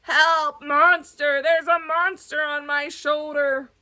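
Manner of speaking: a hint of frightened shouting; bully crying for help, scared; panicked yell. Basil cries out about the monster on his shoulder.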